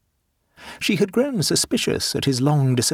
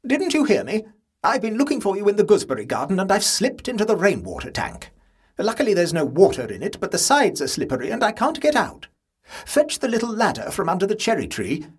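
higher aunt voice calling for help; stuck aunt calling; 7 semitones higher than usual. A narrator's reading. Aunt stuck in the tank, calling for help. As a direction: call for help, a touch fussy.

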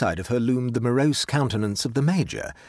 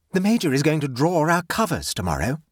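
self-satisfied announcement, slightly raised; heavy satisfaction; 5 semitones higher than usual. Acted. Hostess announces tomorrow's hunt, heavily satisfied. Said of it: "announced the lady with a certain heavy satisfaction".

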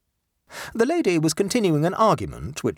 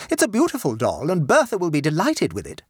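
loud assertion; 6 semitones higher than usual. A narrator's reading. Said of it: "asserted the mother of Victor loudly".

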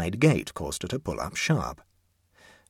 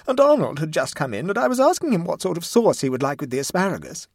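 high, loud, distraught mother; tearful; 10 semitones higher, 7 dB louder than usual. A narrator's reading. Mother recounts the moments before losing her child, tearfully. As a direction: keep wailing through the explanation. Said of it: "said Missus Mumby tearfully".

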